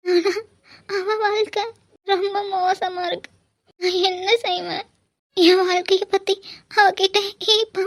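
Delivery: acted tearful lament with a catch in the voice; crying, despairing complaint. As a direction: pour out a mother's hurt through tears. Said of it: "எதுக்கு இப்படி அழுந்துட்டு இருக்க?".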